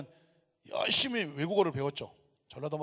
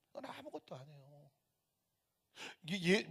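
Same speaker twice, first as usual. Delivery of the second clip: usual speaking voice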